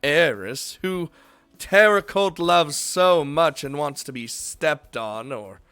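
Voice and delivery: lightly voiced formal mage; a hint of a stately, formal voice; formal character voice. Voicing a character.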